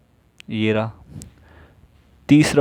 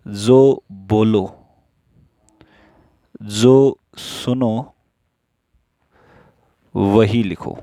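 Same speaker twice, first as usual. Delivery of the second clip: very slow, each word drawn out; teacher stretching out a rule; much slower than usual. Shown as a demonstration. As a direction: spell the rule out slowly for the class. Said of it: "teacher stating the rule slowly".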